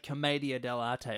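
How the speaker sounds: commedia dell'arte with MAY and a sounded final TAY; alternative pronunciation. Shown as a demonstration. Cohost offering pronunciations, commedia dell'arte ending in TAY. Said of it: "how to pronounce it properly".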